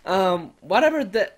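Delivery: muffled bad connection. Real, not acted. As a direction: voice dulled by a poor line. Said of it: "Yeah, you sound muffled".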